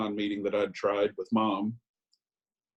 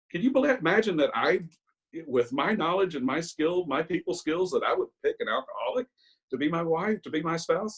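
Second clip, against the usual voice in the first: incredulous rising pitch; 6 semitones higher than usual. Real, not acted. Telling the story of his wife, in rising disbelief. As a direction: voice climbing high in disbelief.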